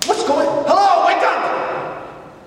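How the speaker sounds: high, loud "wake up!" call; mock shout. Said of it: "It's like".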